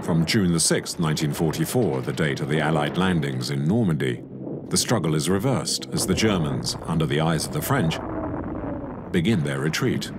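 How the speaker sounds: even, measured voice-over read; documentary narration. A narrator's reading. Narrator introducing the Allied landings, measured documentary read. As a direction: narrate the history calmly.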